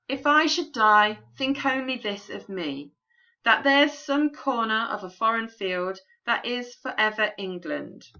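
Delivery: measured, earnest poetry recital; poem reading. Acted. Teacher reads the sonnet's opening to the class, in a recital voice. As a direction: read it as a solemn sonnet.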